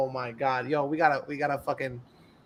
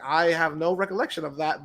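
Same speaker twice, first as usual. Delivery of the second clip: mock-formal measured denial; professional, lawyerly; 5 dB quieter than usual. Singer answering his accuser, imitated lawyerly calm. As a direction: deny it like a prepared legal statement. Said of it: "his statement sounded so professional".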